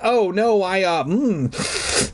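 high, flustered stammer with hesitations; stuttering. Acted. Fake son covering his mistake, stammering high. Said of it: "began to stutter".

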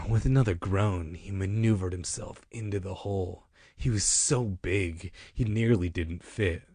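corrected reading. Shown as a demonstration. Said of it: "let me do it how it's supposed to be read".

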